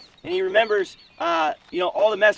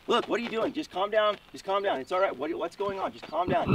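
softer, reassuring mom voice; soothing mom; 4 dB quieter than usual. Retold or imitated. Mom calming the crying kid at the door, soothing. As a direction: talk a crying kid down gently.

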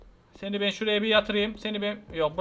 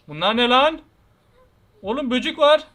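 panicked alarm; 4 semitones higher, 3 dB louder than usual. Real, not acted. Creatures swarm the screen.

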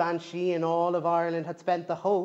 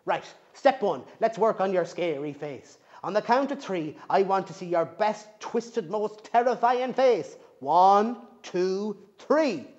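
louder, brisk coaching gran; bossy granny; 3 semitones higher, 5 dB louder than usual. Acted. Granny coaches Bridget on her scary face. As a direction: drill her like a sergeant.

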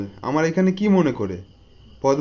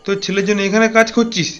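higher, louder incredulous question; raised-pitch shocked protest; astonished disbelief; 4 semitones higher, 4 dB louder than usual. Acted. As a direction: exclaim as if you can't believe what was asked. Café owner astonished at job request.

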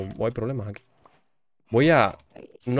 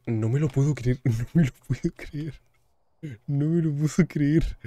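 slow, higher, laughing disbelief; 4 semitones higher than usual. Real, not acted.

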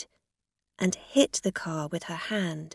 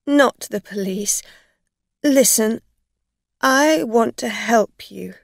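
loud, anxious begging; urgent pleading; 4 semitones higher, 8 dB louder than usual. A narrator's reading. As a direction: press your offer of help desperately. Afraid driver begs, offers help.

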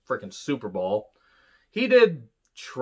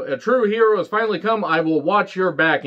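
higher, louder mock heroic proclamation; cheesy hero voice; 5 semitones higher, 3 dB louder than usual. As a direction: ham up the noble savior line.

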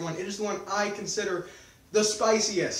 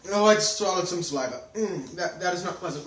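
mouth burning from spicy food; 2 semitones lower than usual. Real, not acted. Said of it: "My tongue is on fire".

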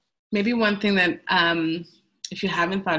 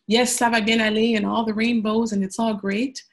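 higher and louder, breezy mock reassurance; mock cheerful optimism; 5 semitones higher, 5 dB louder than usual. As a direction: parody the naive everything-is-fine voice. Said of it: "disillusion folks into thinking".

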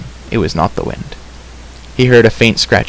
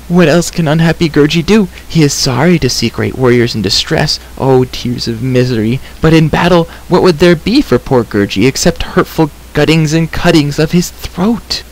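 wretched creature; 6 semitones higher than usual. A narrator's reading. Unhappy creature explaining why he fled battle, wretched. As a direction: lament in a raised creature voice.

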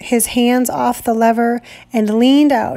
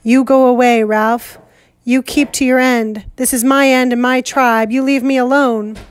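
shouting above noise. Acted. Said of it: "Jack shouted above the noise".

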